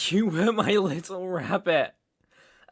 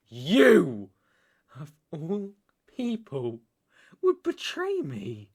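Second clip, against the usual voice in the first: accusing outburst; 4 dB louder than usual. Acted. Betrayed man confronting his former lover, accusing outburst. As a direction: hurl it as a loud accusation.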